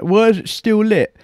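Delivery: high, loud baffled self-quote; confused. Retold or imitated. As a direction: squeak it out, totally baffled. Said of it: "I'm like".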